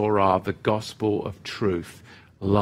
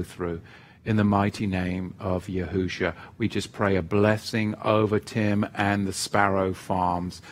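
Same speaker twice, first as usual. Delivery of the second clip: prayer. Acted. Leads prayer for Tim.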